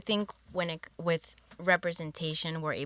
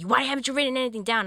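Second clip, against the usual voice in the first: mock scolding teacher; 7 semitones higher, 5 dB louder, faster than usual.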